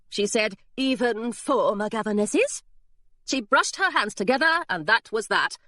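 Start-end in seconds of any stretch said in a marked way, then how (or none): 0.8-2.6 slow, lofty governess; prim governess. Acted. Governess brushing off Hilary's question, slow and prim. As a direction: savour each word, a little smug.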